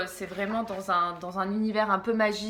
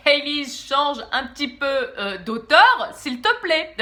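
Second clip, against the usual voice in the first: louder, higher mock plea from the audience; mock viewer plea; 5 semitones higher, 8 dB louder, slower than usual. Viewers begging the vlogger to change author, mock loud plea. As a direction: play the exasperated viewer begging, half-laughing. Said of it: "Vous avez juste envie de dire".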